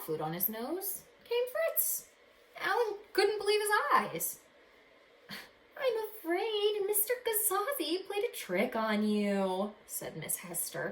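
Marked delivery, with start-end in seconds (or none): 5.8-9.7 slow, higher gentle voice; a lightly voiced kindly old lady; kind lady hiding a smile. Miss Hester telling Alan of the trick, gentle. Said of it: "trying to hide a smile".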